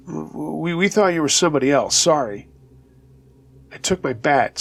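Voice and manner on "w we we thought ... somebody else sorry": stammering, frightened and a bit higher; shaky voice. Retold or imitated. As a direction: stutter out a nervous apology. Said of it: "said with a shaky voice".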